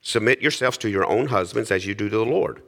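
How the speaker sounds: formal Bible reading voice; scripture reading. Acted. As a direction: read the passage solemnly to the congregation. Reads Scripture aloud to congregation.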